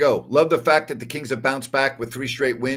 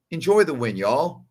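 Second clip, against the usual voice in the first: a little Southern twang on y'all; lightly put-on Southern accent; 3 semitones higher than usual. Host signing off to fans on the win, in a light Southern accent. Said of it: "Little Southern accent down there".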